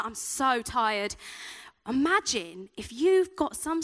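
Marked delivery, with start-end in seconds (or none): 0.0-1.2 slow, dragged-out tired moan; acted weariness. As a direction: drag it out as if exhausted. Gives in to the voice again.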